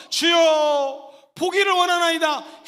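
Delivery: loud, extremely slow cry of 주여; loud drawn-out prayer cry. Shown as a demonstration. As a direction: plead with all strength to see. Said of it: "기도할 때 한 가지 소망".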